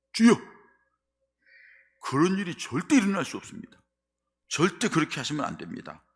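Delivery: high, loud desperate protest; protesting loudly. Acted. Peter protesting to Jesus in a loud, high cry. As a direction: cry out against it, pleading to stop it. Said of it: "베드로가 항변하면서 얘기해요".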